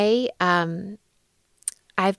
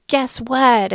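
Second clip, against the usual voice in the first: higher-pitched gushing announcement; excited texting; 5 semitones higher, 4 dB louder than usual. Retold or imitated. Texting a dear friend big news, excited. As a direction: imitate an excited text to a friend. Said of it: "a million exclamation points".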